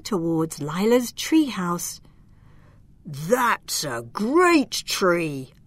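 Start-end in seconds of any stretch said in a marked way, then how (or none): 3.1-5.5 slow, lightly voiced giant; a hint of a lumbering giant. Giant admiring Lila's tree, lightly voiced and slow. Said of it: "said one of them".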